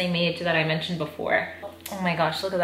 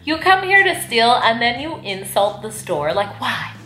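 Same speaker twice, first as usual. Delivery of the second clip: exasperated rant; 3 semitones higher than usual. Retold or imitated. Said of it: "and it's like".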